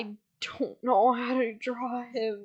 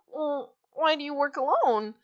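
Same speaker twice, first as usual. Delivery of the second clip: slightly higher, mildly hurt dog voice; mock upset; 5 semitones higher than usual. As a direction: ask it with a touch of put-on upset. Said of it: "Perrito gets all upset".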